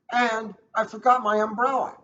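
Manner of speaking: put-on high, loud, upset little girl's wail; crying child. Greta tells her parents about the storm, loud and upset. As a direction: whine it out like a scared kid. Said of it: "cried Greta".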